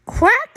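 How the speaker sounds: one high, sharp quack; duck quack. Acted. Grandma reads the duck's part, quacking. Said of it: "says the duck".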